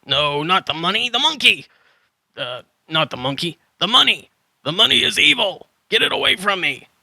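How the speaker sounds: frantic, pushing the money away. Acted. Hermit panics about the money and shouts to keep it away.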